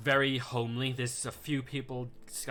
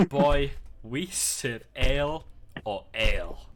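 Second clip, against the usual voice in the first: gruff barmaid; 6 dB louder, slower than usual. Acted. Barmaid scolds the milk order.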